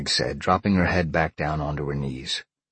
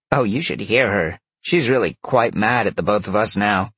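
higher, louder vixen voice; gleeful vixen; 5 semitones higher, 5 dB louder than usual. A narrator's reading. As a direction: tell on her with relish. Vixen gossips about Peg.

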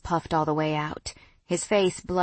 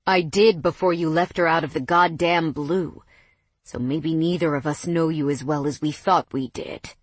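biting back; 2 semitones lower than usual. Acted. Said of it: "Mason bit back".

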